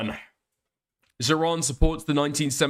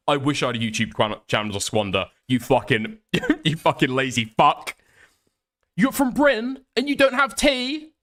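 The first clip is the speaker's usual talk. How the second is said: mocking a Discord troll. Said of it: "being like, um".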